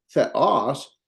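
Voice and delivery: THEOS with the stress on the second syllable; correct accent placement. Shown as a demonstration. Teacher showing the right accent, final syllable stressed. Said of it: "We're just gonna put a stress there".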